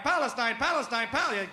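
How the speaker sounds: "Palestine" repeated high, as a drill; correcting pronunciation. Shown as a demonstration. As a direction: drill "Palestine" as PAL-es-tine, each one falling. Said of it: "Let's pronounce it right".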